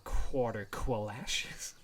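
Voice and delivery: "qualashes" said slowly with a kw sound; Q pronunciation. Acted. Explaining the tournament rules, careful slow kw in "qualashes". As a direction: open "quarter" and "qualashes" both on kw. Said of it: "With a Q".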